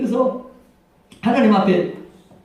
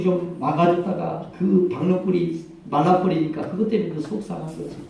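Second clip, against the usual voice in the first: gentle voice of God; 3 semitones lower than usual. Retold or imitated. God speaking gently to Jonah.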